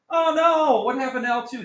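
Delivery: sudden high "Oh no" of alarm; alarmed surprise. Real, not acted. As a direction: gasp it out as the list vanishes. Calculator list vanished.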